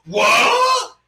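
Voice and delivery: a short, very high mock yelp; mock shocked what. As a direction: play the stunned double take. Character finally shows up, shocked.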